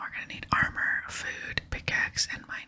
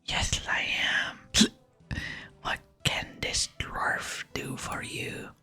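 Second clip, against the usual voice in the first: slurred, drawn-out whisper; whispered tipsy dwarf; slower than usual. Acted. Dwarf offers his services to the player, drunken whisper. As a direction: answer as a well-oiled dwarf.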